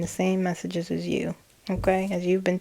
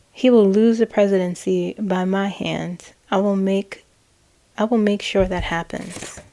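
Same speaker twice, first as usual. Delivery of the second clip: firm, slightly louder threat; chilling threat; 3 dB louder than usual. Retold or imitated. Voicing a chilling vow about the presidency. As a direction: promise it coldly.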